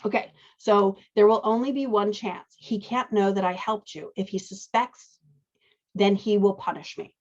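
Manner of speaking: lightly voiced formal goo monster; a hint of a slimy monster, spoken formally. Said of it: "All very much in the goo, goo monster's voice".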